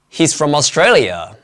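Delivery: "Australia" carries the only stress. Shown as a demonstration. Teacher repeating the clip's sentence for learners, stress on "Australia". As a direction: keep "He's from" light, lean on "Australia". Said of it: "Australia is the only word that's stressed".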